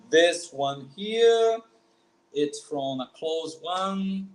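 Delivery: slowed, emphatic this one here; walk the student through each accent mark; slow pointing explanation. Shown as a demonstration. Teacher slowly pointing out the Portuguese accents. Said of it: "We have three accents".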